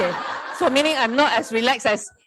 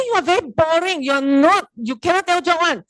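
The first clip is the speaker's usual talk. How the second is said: raised, louder playful telling-off; mock scolding; 6 semitones higher, 4 dB louder than usual. Speaker scolding ChatGPT for a lame joke, mock angry. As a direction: scold the chatbot like a naughty kid, higher. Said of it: "I scold the, the Chat G P T again".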